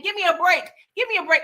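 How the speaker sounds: high whiny plea, said twice; mock pleading rookie cop. Retelling Jake begging Snoop, lightly voiced high whine. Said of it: "the whole time he's like".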